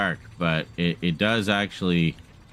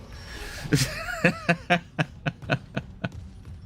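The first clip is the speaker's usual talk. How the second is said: a long laugh climbing very high, then falling; 4 dB quieter than usual. Real, not acted. Player cracking up at the game, long and high. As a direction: laugh hard at your own joke.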